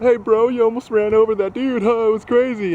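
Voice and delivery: high, dumb bro voice; hammed-up surfer-dude impression; mocking a dude. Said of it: "rolled down his window and went".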